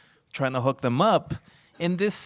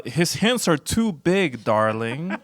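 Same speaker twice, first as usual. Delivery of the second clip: disco guy voice; 3 dB louder than usual. Retold or imitated. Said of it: "the seventies disco guy says".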